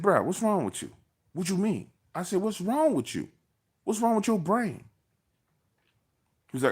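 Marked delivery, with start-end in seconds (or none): 0.0-4.8 much higher, exasperated retold jab; mock him like he's lost his mind; offensive put-down. Retold put-down of cousin on the phone, high incredulous pitch. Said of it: "I was real offensive".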